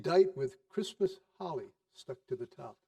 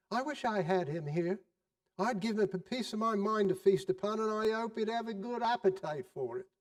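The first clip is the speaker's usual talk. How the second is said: indignant wife; 5 semitones higher than usual. Acted. Wife scorns Scrooge.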